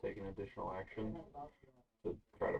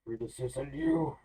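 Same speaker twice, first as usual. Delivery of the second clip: firm plea; 5 semitones higher, 7 dB louder, much slower than usual. Acted. Player pleads with the monster.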